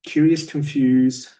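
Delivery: puzzled questioning voice; curious confused tone. Shown as a demonstration. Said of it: "curious, confused tones".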